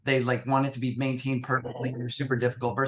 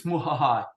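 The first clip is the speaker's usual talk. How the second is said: evil cackle. Acted. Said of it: "The evil genie says".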